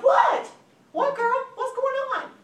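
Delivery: high, loud, eager reply; thrilled girlfriend wanting the gossip; excited curiosity. Acted. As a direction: drop everything and demand the news. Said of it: "when your friend calls you excited".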